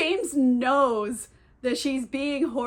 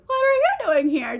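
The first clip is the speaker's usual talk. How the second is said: high, louder little fish voice; cute innocent fish; 10 semitones higher, 5 dB louder than usual. Retold or imitated. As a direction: play a tiny clueless creature, pitched way up. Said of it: "like, a cute little innocent fish".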